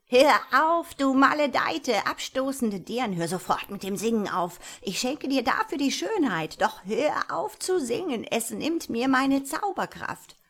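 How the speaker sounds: loud, high desperate wizard yell; shouting. Acted. Wizard yelling at the singing princess, loud and pleading. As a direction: scream at her to stop singing, half pleading. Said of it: "wie der Zauberer aus der Ferne schrie".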